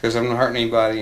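like nobody has any right to stop you; imitating a confident musician brushing off a policeman; cocky attitude. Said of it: "he had that kind of attitude".

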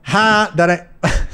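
slow, drawn-out rapper "Ha"; a lightly voiced French Montana, drawled; French Montana impression. Doing French Montana for a friend, slow drawn laugh-talk.

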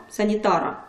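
"санітара" with a hard, unsoftened "р"; plain hard "ра" ending in "санітара". Shown as a demonstration. Teacher gives a hard-group example, hard r. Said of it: "це тверда група".

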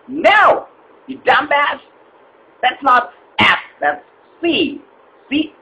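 high exasperated snap. Acted. Caller snaps at the agent, high and fed up. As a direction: cut him off, fed up.

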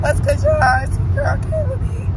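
high sing-song on "Kayla B."; playful intro. Shown as a demonstration. Introducing herself to viewers, high playful voice. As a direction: pitch "your girl, Kayla B." way up. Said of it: "signature intro voice".

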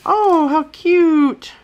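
high, slow delighted gush; excited squeal. Real, not acted. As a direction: coo over something adorable. Unboxing a cute blind bag.

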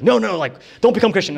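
put-on a mother protesting her kid's choice; pleading mom. Mom objecting, voiced in story.

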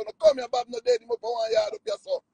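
high, urgent call to the crowd; telling the people Bob is alive; excited calling out. Retold or imitated. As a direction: shout to people down the road. Calling people to come see.

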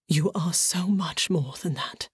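a man's voice breaking mid-confession; voice fracturing. A narrator's reading. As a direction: press on as the voice cracks. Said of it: "his voice fracturing".

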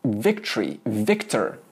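Victory, victor with a hard English v; wrong victory. Shown as a demonstration. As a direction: bite the lip for a full v on Victory, victor.

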